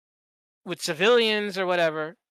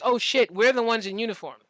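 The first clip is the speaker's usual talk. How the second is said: retold cops' realization; 5 semitones higher than usual. Officers warning the locals, a lightly voiced, higher, cocky retort. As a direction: voice the cops smugly pointing out the uniform. Cops realizing, quoted as a group.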